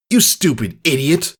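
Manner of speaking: high, far-off bully yelling at a filly; a bully colt yelling insults at the crying filly, high and angry; shouting bully. Acted. Bully colt yelling at the crying filly, high and angry. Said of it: "He was shouting at a unicorn filly".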